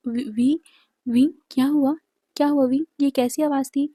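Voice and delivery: a mild tremble, stammering his name; shaken, calling into the phone; trembling voice. Acted. Wang Ji on the phone after the crash, mildly trembling. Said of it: "कांपती आवाज़ में बोल रहा था".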